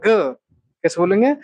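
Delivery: slow down so the class follows; slow repeat. Shown as a demonstration. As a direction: question drawn out slowly. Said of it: "गाग". (धीरे धीरे पूछना)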